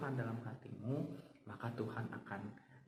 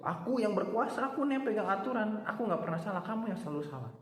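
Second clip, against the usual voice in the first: boastful king; 8 semitones higher than usual. Retold or imitated. The proud king boasting to his accuser, arrogant and high. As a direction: puff up like a vain ruler.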